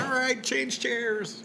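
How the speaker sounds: high, drawn-out announcer call; speed-dating caller. Pretend. Host imitating a speed-dating organiser, slow high sing-out call. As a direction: stretch it out like calling the room to switch.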